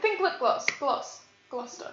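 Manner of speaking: Gloss like lip gloss; teaching pronunciation. Shown as a demonstration. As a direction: say "Gloucester" as "gloss-ter". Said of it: "Like, think".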